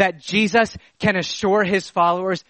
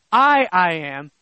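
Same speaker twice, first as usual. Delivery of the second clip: a long, emphatic first "I" before "I am"; stress on I. Shown as a demonstration. Preacher explaining Greek doubled pronoun, emphatic "I". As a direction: hit the first "I" and let it ring. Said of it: "to draw emphasis upon the I".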